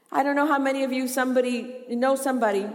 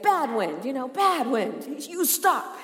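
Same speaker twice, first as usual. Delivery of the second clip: mock scolding; 3 semitones higher, slower than usual. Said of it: "he's like".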